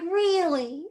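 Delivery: high-pitched retold disbelief; surprised. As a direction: question it with rising astonishment. Retells her surprised reaction.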